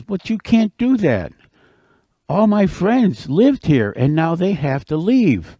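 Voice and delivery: high, pleading objection; protesting turtle. Acted. Turtle objects as his friends must leave, mildly upset. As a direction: plead with rising indignation, easing at the end.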